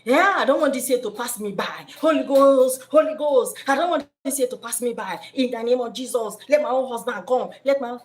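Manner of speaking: a hammed-up desperate prayer; desperate woman praying. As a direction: cry out to the Holy Ghost in mock desperation. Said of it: "If you are the desperate".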